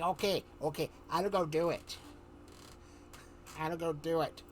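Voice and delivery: Hazel. Retold or imitated. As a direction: imitate her giving in. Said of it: "I could do a good impersonation of her".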